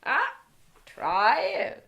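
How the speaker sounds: quick, loud, laughing mock teacher; imitating teacher. Student quoting the teacher's favourite phrase, laughing and fast. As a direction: rattle off his French teacher's line. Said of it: "I like a lot".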